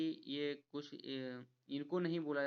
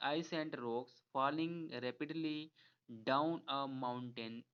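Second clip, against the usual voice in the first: very slow, word-by-word reading of a definition; teacher dictating an English definition, very slow; slow dictation read; much slower than usual. Acted. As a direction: read it out slowly so students can follow. Reads the definition aloud.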